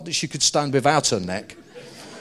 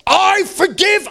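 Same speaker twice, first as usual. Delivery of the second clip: grudging; 8 dB louder, slower than usual. Retold or imitated. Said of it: "and she goes".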